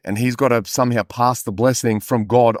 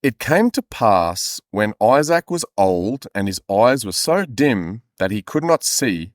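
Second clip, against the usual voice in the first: scripture reading; slower than usual. Acted. Reads scripture slowly.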